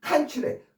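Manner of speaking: 칸출액 with 칸 punched very high; first-syllable stress, exaggerated for learners; stress on KAN. Shown as a demonstration. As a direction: leap up on 칸, then drop. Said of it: "앞에 강세가 있어서".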